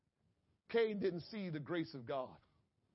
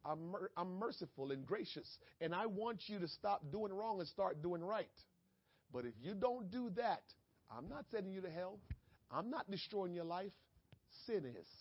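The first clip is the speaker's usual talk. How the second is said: much softer, gentle and merciful; God speaking softly; 8 dB quieter than usual. Acted. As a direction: lay it down tenderly, like a gracious father. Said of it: "God's message is".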